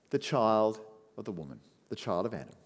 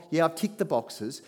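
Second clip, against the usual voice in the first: uncaring; 5 semitones higher, 4 dB louder than usual. Pretend. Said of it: "like he doesn't really care".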